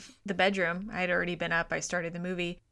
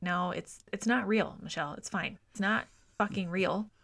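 self-reassurance; 5 dB quieter than usual. Retold or imitated. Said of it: "I'm like".

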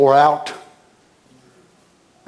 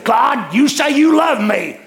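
complaining attitude; 8 semitones higher than usual. Retold or imitated. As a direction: whine at God like a sulking believer. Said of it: "Where's his attitude?".

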